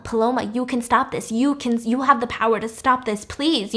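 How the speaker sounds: lightly acted plea; begging. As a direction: implore her, without real tears. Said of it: "She's begging Paloma".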